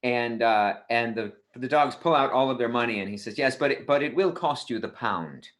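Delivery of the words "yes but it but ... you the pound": lightly voiced British bartender; British accent. British bartender naming his price, British accent. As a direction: put on a polite British accent. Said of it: "the British bartender says".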